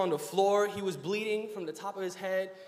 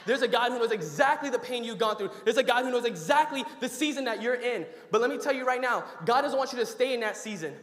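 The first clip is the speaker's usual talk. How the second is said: preaching; 4 dB louder than usual. Acted. Preaching builds to full force.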